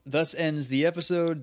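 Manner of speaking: dramatic narrator. Pretend. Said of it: "mock narrator close".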